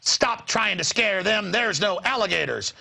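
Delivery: a touch of slow indignant rebuke; angry woman. Retold or imitated. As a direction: scold like an irritated stranger. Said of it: "like, anger".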